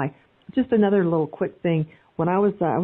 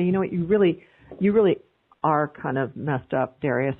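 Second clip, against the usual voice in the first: mild heavy critique; 3 semitones lower than usual. Shown as a demonstration. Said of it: "So if I say".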